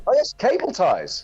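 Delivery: sudden high burst of realisation; excited eureka. Real, not acted. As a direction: shout it like you've just cracked it. Sudden eureka guess in quiz.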